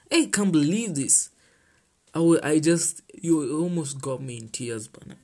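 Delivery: ordinary talk, nothing marked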